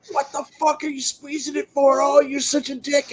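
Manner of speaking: high, squealed complaint; pained protest. Retold or imitated. Friend protests as his wound is squeezed, high pained outrage.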